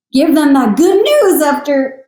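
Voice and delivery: real emotion cracks the voice on this line; teary crack on the words. Real, not acted. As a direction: let the voice break as you say it. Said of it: "sorry, my voice cracked".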